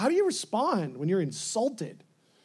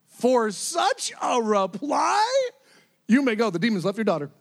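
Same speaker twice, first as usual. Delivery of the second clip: astonished delight; 3 semitones higher, 5 dB louder than usual. Retold or imitated. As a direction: act out Jesus marveling at the reply. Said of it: "see him astonished again".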